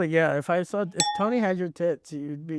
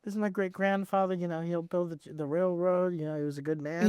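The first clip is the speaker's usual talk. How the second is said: softer, earnest family-history parody; mock heartfelt storytelling; 5 dB quieter than usual. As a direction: pour your heart out about an ancestor, half-serious. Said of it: "pouring your heart, heart out".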